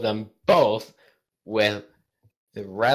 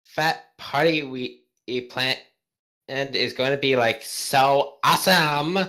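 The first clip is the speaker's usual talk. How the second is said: put-on higher valley girl gushing; valley girl teen; 4 semitones higher than usual. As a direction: gush like a teenage girl. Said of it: "we'll go teenager".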